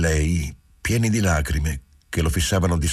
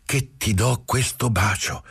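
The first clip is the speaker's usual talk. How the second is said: tender, close to his lips; 7 semitones higher than usual. Acted. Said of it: "sfiorargli con le labbra la bocca".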